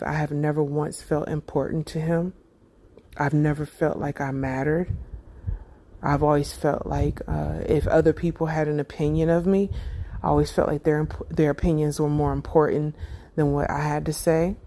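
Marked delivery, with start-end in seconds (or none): 6.0-14.6 holding back tears. Real, not acted. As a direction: voice tight, fighting tears. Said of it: "I'm trying not to cry".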